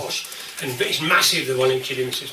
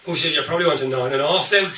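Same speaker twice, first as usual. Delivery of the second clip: laughing through it; 2 semitones lower than usual. Real, not acted. Laughs while giving punchline.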